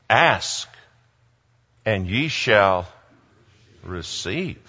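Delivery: slow, low, solemn preacher intoning; scripture quote. Retold or imitated. Preacher solemnly quoting scripture to David, slow and low. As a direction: intone it like a verse.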